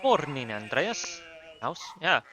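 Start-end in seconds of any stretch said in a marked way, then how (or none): 0.0-1.2 shaky attempt at a German accent. Neighbour greeting Andreas, badly attempted German accent. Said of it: "I can't do a German accent".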